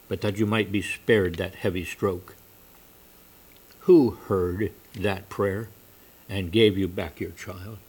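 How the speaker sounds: a hint of soft, grave sternness; quiet rebuke, measured and grave; soft and stern. Stranger gently but sternly reminding the merchant of his answered prayer. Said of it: "And he said softly and very sternly".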